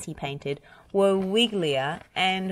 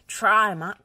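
louder urgent call; crying out; 4 semitones higher, 5 dB louder than usual. Acted. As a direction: push Muck on, pleading. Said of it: "cried Bob".

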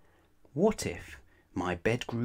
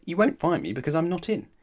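high, loud, quick retort; quick childish comeback; stubborn child; 9 semitones higher, 8 dB louder, much faster than usual. Acted. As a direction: argue back like a stubborn child. Children arguing at the door.

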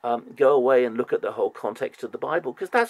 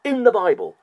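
louder and higher, slowing on key words; heated rant; 7 semitones higher, 8 dB louder than usual. Real, not acted. Fed up with other churches' talk, a loud exasperated outburst. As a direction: hammer it home, exasperated.

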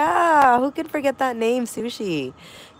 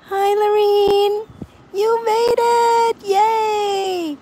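thrilled greeting; 11 semitones higher, 6 dB louder, much slower than usual. Real, not acted. Greeting a returning viewer.

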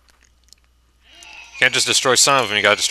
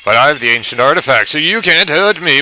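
mad scientist; 4 dB louder than usual. Pretend. Taunting the monster villain-like.

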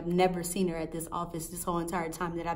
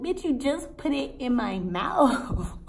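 laughing disbelief; 6 semitones higher, slower than usual. Retold or imitated. Retold outburst with laugh.

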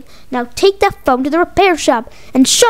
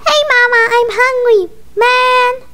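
put-on whiny kid voice; 8 semitones higher than usual. Baby character demands food.

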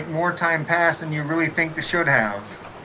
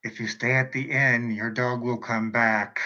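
shopkeeper voice; 5 semitones lower, 4 dB quieter than usual. Acted. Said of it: "you two and says".

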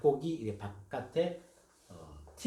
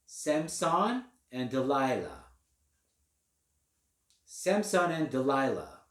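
slow dictation; much slower than usual. Shown as a demonstration. Dictation read slowly.

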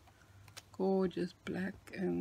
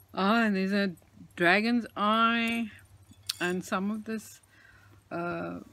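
gobsmacked; 6 dB louder than usual. Real, not acted. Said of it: "so gobsmacked I am".

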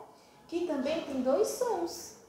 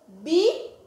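Bifé split by a long pause, loud bi; syllable by syllable; 3 semitones higher, 8 dB louder than usual. Shown as a demonstration. Teacher sounding out for children, Bifé in two separate pieces. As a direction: punch bi, wait, then an open fé. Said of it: "eu tenho duas sílabas".

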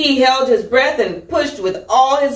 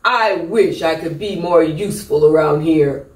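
lower, glum moping sigh; moping peacock; 5 semitones lower than usual. Acted. Peacock moping about being useless, lower and glum. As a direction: moan it sadly. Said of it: "moaning and groaning".

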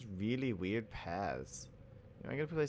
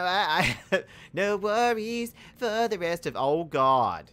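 loud laughing shock; startled laughing outburst; 6 semitones higher, 10 dB louder, slower than usual. Real, not acted. Startled mid-sentence, laughing.

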